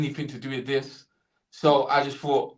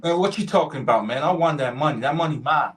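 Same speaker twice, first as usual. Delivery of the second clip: lightly put-on American street talk; mildly indignant American lottery winner; American accent. John Cheeks insists he won the money, put-on American accent. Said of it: "do an American accent".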